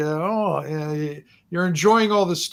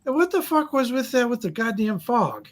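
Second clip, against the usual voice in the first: put-on much higher, bewildered drunk voice; drunk patron; 8 semitones higher than usual. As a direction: squeak it out like a befuddled drinker at the bar. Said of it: "he kinda looks up and he goes".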